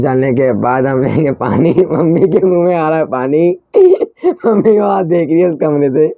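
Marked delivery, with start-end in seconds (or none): 1.7-3.6 giggling through the line; laughing. Real, not acted. Teasing that mom's mouth is watering, laughing. 3.6-4.4 quick squeaky laugh; high giggle. Real, not acted. Cracking up about mom watching from the room. 4.5-6.1 giggling through the line; laughing. Real, not acted. Teasing that mom's mouth is watering, laughing. Still laughing about mom.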